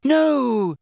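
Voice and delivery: high squeak of horror; horror-struck squeak. A narrator's reading. Hermione realising her mistake, horror-struck squeak. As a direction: squeak it out, horrified. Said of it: "said Hermione in a horror-struck squeak".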